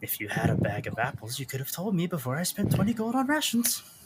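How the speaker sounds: high, complaining, grumbling side remark. A narrator introduces a character and voices his line, muttering under his breath. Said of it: "muttering under his breath".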